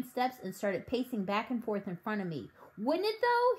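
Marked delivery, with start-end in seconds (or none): 2.8-3.6 high, eager outburst; carried away with the idea; excited shout. A narrator's reading. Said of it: "he shouted".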